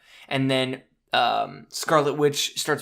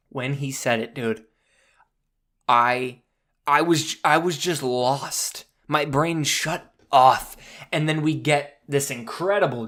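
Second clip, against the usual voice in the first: ordinary talk, nothing marked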